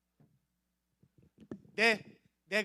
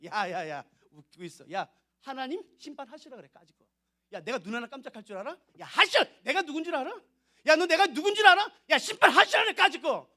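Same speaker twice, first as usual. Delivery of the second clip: defiant sneer; 2 semitones higher than usual. Acted. Arrogant sinner mocking God's judgment.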